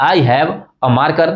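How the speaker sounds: slow, "a" said as a short weak "uh"; weak form a. Shown as a demonstration. Teacher slowly shows students the conversational weak "a", a as uh. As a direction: say "a" reduced to a quick "uh", unstressed, slowly. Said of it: "हमने अ बोल दिया".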